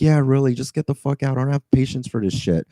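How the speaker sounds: retold exasperation. Driver kicking out the passenger, retold exasperation.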